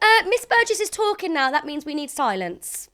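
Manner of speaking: high, loud teacher demanding silence. Pretend. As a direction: hush a noisy classroom from the front. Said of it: "You sound like a teacher".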